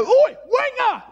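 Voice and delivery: slow, high, loud call; shouting. Retold or imitated. Diver waving meat at the shark, loud high shout. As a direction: bellow to lure the shark. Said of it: "get a bit of meat and go".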